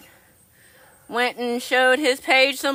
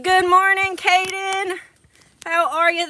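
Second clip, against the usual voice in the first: bright high greeting; 8 semitones higher, 4 dB louder, slower than usual. Real, not acted.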